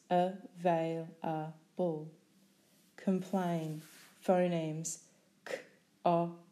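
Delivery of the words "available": "Available" slowly, syllable by syllable; split into syllables. Shown as a demonstration.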